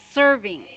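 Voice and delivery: "serving" with a crisp opening s, not sh; clear s sound. Shown as a demonstration. Teacher correcting student's sh, "serving" said with a clear s. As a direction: start "serving" like "sir". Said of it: "it's not sh sound, it's s".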